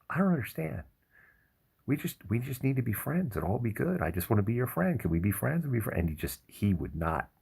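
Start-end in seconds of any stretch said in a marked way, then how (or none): 0.1-6.0 higher, gentle pug begging to be friends; sweet pleading pug voice. Retold or imitated. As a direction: play the innocent pug who only wants a friend. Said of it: "And Yoda was just like".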